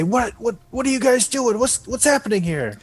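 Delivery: confused workers. Acted. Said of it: "They kind of say".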